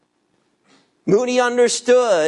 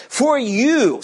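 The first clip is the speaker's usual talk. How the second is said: YOU stretched and pitched higher; stress on YOU; 4 semitones higher than usual. Real, not acted. Preacher reading the psalm's "you" that points to God, emphatic YOU. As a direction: lean emphatically on the word YOU. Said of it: "It's emphatic".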